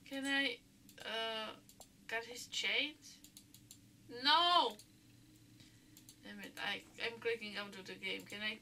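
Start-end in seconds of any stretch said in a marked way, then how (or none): 4.2-4.8 high, loud no; a sharp dismayed shout; loud protest. Real, not acted. Reacting to game outcome.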